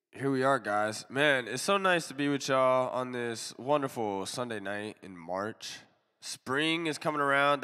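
stuffy allergy nose; nasal voice. Real, not acted. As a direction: talk through a blocked nose. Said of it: "nasally voice".

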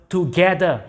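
together, leaned on and falling; stress on together. Shown as a demonstration. Preacher to congregation, stressing together. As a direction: hit together hard for the congregation. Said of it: "God wants me to emphasize this word".

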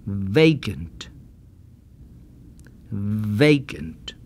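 each word said slowly with a long buzzing V; exaggerated V. Shown as a demonstration. Teacher stretches the V in each word for repeating. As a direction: drag out every V. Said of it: "I'll exaggerate the V sound and say it slowly".

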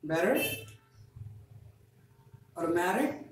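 better and automatic with tapped t sounds; flap T drill. Shown as a demonstration. Teacher leading a repeat-after-me drill with flaps. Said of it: "repeat after me".

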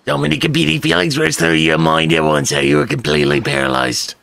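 rough, horrible smoker's rasp; deliberately ugly smoker voice; chainsmoker voice. Shown as a demonstration. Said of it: "the fucking Chainsmoker voice".

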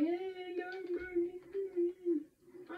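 high, drawn-out fake wail; mock crying. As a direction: imitate a crying player, stretching every word. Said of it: "I think he's crying".

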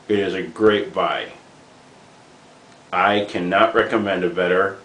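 talking around a cigar; cigar in mouth. Real, not acted. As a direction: lips closed on cigar. Seen 3: Cigar held between lips while speaking, from -1.0 to +5.7.

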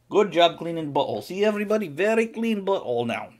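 high cooing praise for the cat after cleaning; pet praise voice. Real, not acted. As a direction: coo at the cat like a proud owner.

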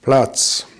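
knapper, lauter Befehl; Hundekommando. Retold or imitated. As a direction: wie zum Hund befehlen. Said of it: "dann ist das ein Kommando". (scharfer Befehlston)

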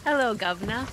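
amateur Cockney greeting; mock Cockney hello; Cockney accent. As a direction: imitate a stagey British Cockney. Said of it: "I kinda did too".

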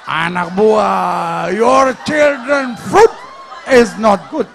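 very loud, drawn-out mock tirade; hammed-up scolding. Official's wife berating the supervisor about staff, shouted mock fury. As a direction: shout it word by stretched word. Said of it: "langsung dia semprot".

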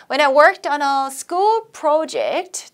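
slow, phrase by phrase; chunked model reading. Shown as a demonstration. Teacher chunking a sentence for students, slow. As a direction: read in meaning chunks for learners. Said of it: "also 끊고요".

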